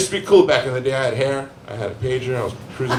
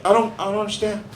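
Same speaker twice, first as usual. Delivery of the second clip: put-on childlike stepdaughter; 6 semitones higher than usual. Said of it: "and she's like".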